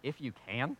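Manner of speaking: quiet, incredulous retort; Jesus firing the father's words back, mildly indignant; a little hot. Retold or imitated. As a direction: throw the question back, lightly irritated. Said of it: "Jesus is actually a little hot".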